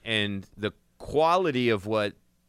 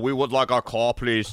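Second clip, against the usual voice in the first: a weak, hammed-up Ukrainian accent with a laugh at the end; terrible Ukrainian accent. A Ukrainian mobster politely asking for his car back, in a bad Ukrainian accent. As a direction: fake Ukrainian mobster accent, barely put on. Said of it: "That's a terrible Ukrainian accent".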